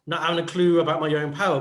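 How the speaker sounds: muttered, low mock-helpless excuse; clueless kid in the corner, hammed up a little; nervous wreck. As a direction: play a lightly flustered nervous wreck. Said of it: "like the nervous wreck going".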